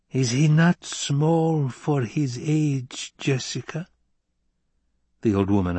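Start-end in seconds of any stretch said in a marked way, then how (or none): 0.1-3.9 slow wheezy twanging hag voice; wheezing old crone. Acted. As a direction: wheeze it out like an untuned string. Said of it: "Her voice wheezed and twanged".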